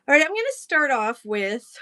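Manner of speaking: slightly winded, out of breath. Real, not acted. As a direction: talk while catching your breath. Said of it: "oh, I'm out of breath".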